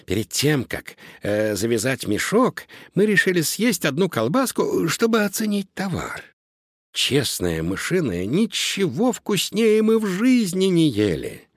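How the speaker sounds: mouse voice climbing to a high squeak; exclaiming mouse. A narrator's reading. Mouse confesses to tasting a sausage, exclaiming. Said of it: "воскликнул другой мышонок".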